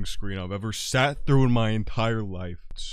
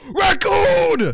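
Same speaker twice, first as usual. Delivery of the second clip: excited shout; 14 dB louder than usual. Real, not acted. Sees raccoon.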